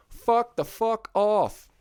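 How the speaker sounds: high, drawn-out angry fuck the fuck off; exasperated outburst. Real, not acted. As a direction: stretch it slowly with fed-up rage. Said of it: "I'll say it right here".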